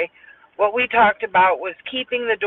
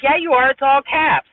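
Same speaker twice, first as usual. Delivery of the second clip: higher-pitched, mock-argumentative comeback; insistent retort; 5 semitones higher, 3 dB louder than usual. Speaker retelling a spat over all-caps texts, insistent. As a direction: fire back a pointed correction, pitched up.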